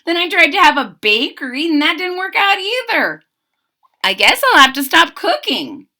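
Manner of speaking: high, fast, fretful baker to himself; a touch of hopeless worry; high rushed lament; mild despair. A narrator's reading. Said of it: "He said to himself".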